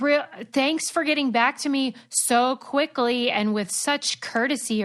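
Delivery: mock-polite sarcasm, slow; imitating a sarcastic reply. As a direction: drip sarcasm over the thanks. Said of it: "like, sarcastically?".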